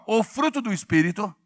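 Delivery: loud chant in short separate phrases; loud call-out. Shown as a demonstration. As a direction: lead the congregation phrase by phrase. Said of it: "fala bem alto assim".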